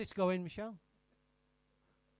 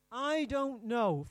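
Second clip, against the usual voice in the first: slow, louder evasive denial; slow, louder mock Cain lying; Cain's lie; 5 dB louder, much slower than usual. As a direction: drag it out like a guilty liar. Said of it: "First lie in the Bible".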